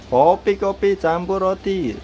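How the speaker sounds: high hawker's cry; coffee seller's call. Shown as a demonstration. Owner teaches bird the coffee cry, high.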